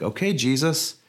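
a hint of a gung-ho disciple; eager Thomas. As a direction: play Thomas talking himself into following. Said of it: "He's like".

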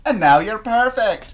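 slow, laughing Scottish line; mock Scottish tenderness through a laugh; light Scottish accent, slow and laughing; Scottish boyfriend voice. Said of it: "when we're wiping semen off ourselves".

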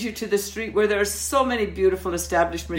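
put-on courteous French-accented send-off. Waitress sending customer into the street, French accent. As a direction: coax him out with a French accent. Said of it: "my French was impeccable".

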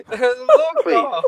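put-on high, loud laughing Mexican accent. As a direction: shout it in a hammy Mexican accent. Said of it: "This is the Jewish Mexican".

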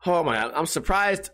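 ordinary talk

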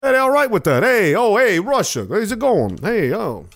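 a playful hint of an Italian wiseguy accent; Italian gangster ribbing a Russian; Italian mobster. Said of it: "Donnie versus Drago".

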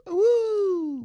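high loud wolf cry; werewolf howl. Pretend. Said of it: "My Patronus is a wolf".

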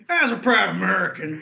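laughing, a hint of a general; lightly voiced general; army general voice. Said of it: "Army general voice".

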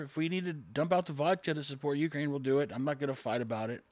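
resigned compliance. Acted. Husband agreeing to dump vodka for his wife, mildly resigned. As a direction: give in quietly, voice dropping off.

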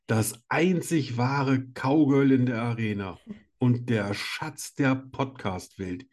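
slow, grand showman introduction; grand entrance announcement. Acted. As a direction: announce her like a ringmaster. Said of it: "ich freue mich immer auf deine Begrüßungen".

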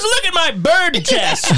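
mock pitiful boast; laughing mock plea. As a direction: plead it through giggles. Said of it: "He goes".

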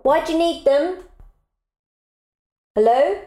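calling to her husband through the door. Real, not acted. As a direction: call out and wait for an answer.

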